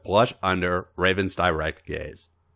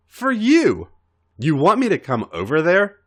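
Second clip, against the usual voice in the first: teasing; 9 semitones higher, 5 dB louder than usual. Acted. Raven teasing AJ.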